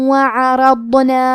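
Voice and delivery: وعرضنا said slowly, with a heavy ر and ض; tajweed demo. Shown as a demonstration. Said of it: "غنہ اور تشدید کے ساتھ ادا کریں گے". (وعرضنا بھاری آواز میں آہستہ)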